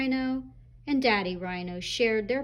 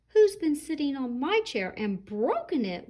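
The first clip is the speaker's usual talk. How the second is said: put-on a touch higher, little baby wail; small wailing Baby Rhino; 4 semitones higher than usual. Baby Rhino finding his broken chair, small wail. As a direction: whine it like a tiny upset rhino. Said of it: "wailed Baby Rhino in his small little voice".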